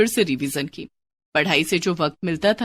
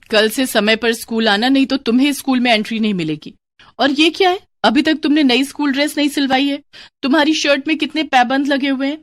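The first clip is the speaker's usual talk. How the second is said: stern teacher scolding; 4 semitones higher than usual. Acted. Teacher scolds a poor pupil about lateness and her patched shirt, stern. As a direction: scold the late pupil firmly.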